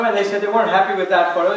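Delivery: ordinary delivery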